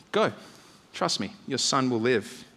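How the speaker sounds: gently insist, taking your time; calm reassurance. Acted. Jesus telling the father to trust him, calmly reassuring. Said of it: "Jesus' tune seems to change".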